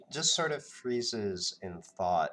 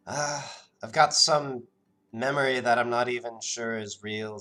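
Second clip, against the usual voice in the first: a hint of a wary young woman, brushing it off; wary villager, lightly voiced and a bit rushed; Karina's voice; 3 semitones higher, 4 dB louder, much faster than usual. GM voices Karina recalling family.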